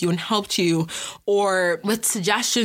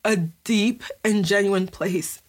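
holding back tears. Real, not acted. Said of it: "I'm trying so hard not to cry".

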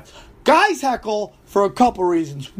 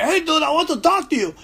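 mock fan voice laughing; 9 semitones higher than usual. Imitating second fan, laughing.

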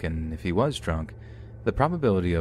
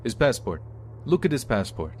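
put-on higher, slurring drunk; slurred drunk voice; 5 semitones higher than usual. A narrator's reading. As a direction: slur it at the bartender. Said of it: "The obtuse slurred".

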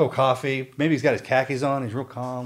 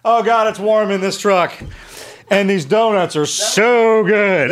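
mock loudspeaker taunt; 3 semitones higher, slower than usual. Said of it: "somebody on the loudspeaker going".

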